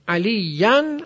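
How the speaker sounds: "علیاً" separated, ending in a held -yan; "علیاً" as ali-yan with the tune lifting; accusative ending. Shown as a demonstration. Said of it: "منصوب شده".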